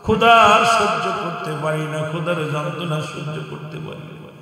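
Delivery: put-on mild chanted wail of a hungry child; crying hungry child. Hungry children calling to their father, plaintive wailing chant. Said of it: "সন্তানগুলো ক্ষুধার যন্ত্রণায় কান্দে".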